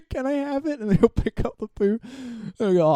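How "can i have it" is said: much higher, softer "Can I have it?"; hammed-up falsetto plea; squeaky mock innocence. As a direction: squeak it through a laugh. Repeats the prankster's line laughing.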